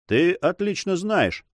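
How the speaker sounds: reply with some animation, slowly; lively retort. A narrator's reading. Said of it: "с живостью сказал Монбар". (с живостью, повыше)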